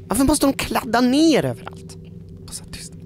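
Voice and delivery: disgusted hushed whisper. Real, not acted. Seeing blood smeared everywhere, whisper. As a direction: whisper it, creeped out.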